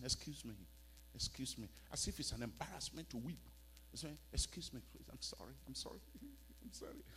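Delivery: soft mock excuse-me; imitated embarrassed apology. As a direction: apologise quietly, as if caught crying. Imitates embarrassed apology when weeping.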